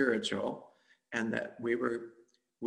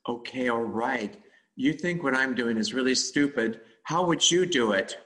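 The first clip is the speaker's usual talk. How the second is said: challenging the voice; 7 dB louder than usual. Retold or imitated. Confronting the inner critic.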